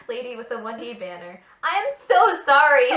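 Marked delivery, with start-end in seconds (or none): 1.6-2.9 loud, higher, giggling through it; mock apology, laughing. Reading the heroine's apology aloud, laughing. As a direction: overact the apology while cracking up.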